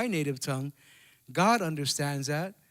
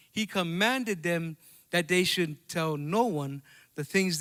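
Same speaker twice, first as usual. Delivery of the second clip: scripture reading. Acted. Reads the Bible passage aloud.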